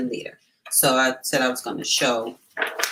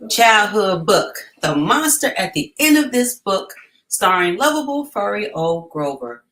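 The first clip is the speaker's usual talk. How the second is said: excited announcement; 5 semitones higher, 8 dB louder than usual. Acted. Announcing a beloved childhood book.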